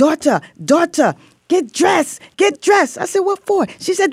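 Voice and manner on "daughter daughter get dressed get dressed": put-on high, swooping Puerto Rican accent. You retell your prison mom coming to you in the TV room, in Diana Sanchez's Puerto Rican accent. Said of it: "Puerto Rican accent".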